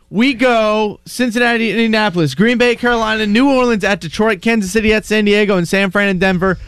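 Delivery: brisk, even list reading; rattled-off list. Real, not acted. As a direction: run the matchups together without stopping. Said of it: "That was very fast".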